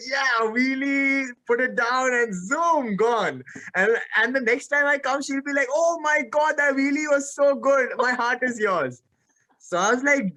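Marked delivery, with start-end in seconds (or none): 0.1-3.4 drawn-out self-hyping boast; mock triumph. Rider hyping himself up for a wheelie, drawn-out triumph. Imagining his triumphant bike stunt. 5.7-9.0 higher-pitched mock gushing; lightly voiced adoring girl; imitated swooning admirer. Imagined girl admiring his wheelie, mock swooning.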